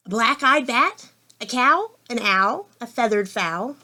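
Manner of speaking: measured picture-book narration; story reading to children. A narrator's reading. Reader opening a farm story for children, measured storytelling. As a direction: read it out for little listeners, savouring the rhyme.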